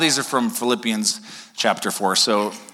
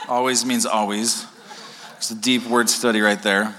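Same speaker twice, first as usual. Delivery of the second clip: laughing. Real, not acted. Joking about a word study.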